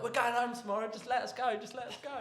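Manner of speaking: high-pitched mock plea to be let go; high, beseeching retold plea; mock pleading. Pleading with police while cuffed.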